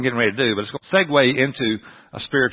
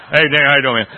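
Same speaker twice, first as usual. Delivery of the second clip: lightly deepened, punchy greeting; a hint of bro-hug gruff greeting; deep man-hug voice; 5 dB louder, faster than usual. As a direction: greet a buddy in a mock manly voice. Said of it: "your voice gets deep when you do this".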